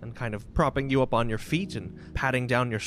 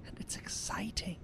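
consoling mother; 5 semitones higher, faster than usual. Acted. Mother promising Mick an adventure together, tender and consoling. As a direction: coax gently in a high, airy voice.

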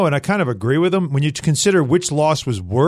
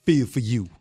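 attempted deep, low voice; 5 semitones lower, 4 dB quieter than usual. Host recalling himself at thirteen, putting on a deep voice. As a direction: drop the voice lower on the last words. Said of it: "Trying to get my voice deep like this".

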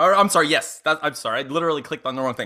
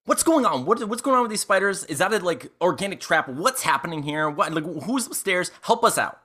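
higher, lightly acted alarm; urgent questioning; 4 semitones higher than usual. Player character begs Haviland to explain the spiders, urgently. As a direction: ask in a bewildered rush for help.

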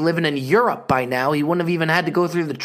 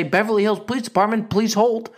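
mock hold recording. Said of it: "They may pick up and say".

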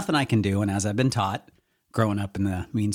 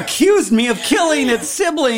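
Amy; 8 dB louder than usual. Retold or imitated. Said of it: "Amy's running up like".

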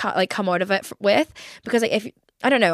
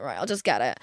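quiet resignation; 7 semitones lower, 5 dB quieter than usual. Retold or imitated. Own inner voice deciding.

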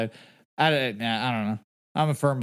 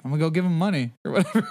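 laughing reply; faster than usual. Retold or imitated. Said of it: "It's like".

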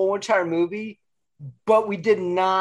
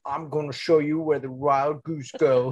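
Foster quote; 4 semitones lower than usual. Retold or imitated. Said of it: "Foster and Ursula".

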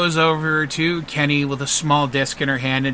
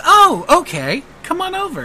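bubbly lady; 5 dB louder than usual. Acted. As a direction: sweetly wave him over. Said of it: "And she goes".

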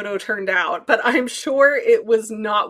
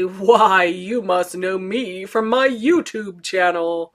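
bold proud boast; slower than usual. Pretend. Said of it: "the backbone to say".

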